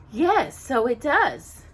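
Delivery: slow, measured stepmother; slowly. Acted. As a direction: draw the words out coolly. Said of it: "Lady Tremaine said slowly".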